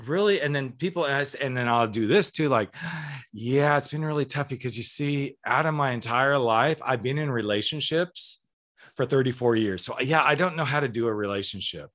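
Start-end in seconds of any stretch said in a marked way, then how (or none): 3.3-11.9 sarcastic. Retold or imitated. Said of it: "Your sarcasm. It's so thick".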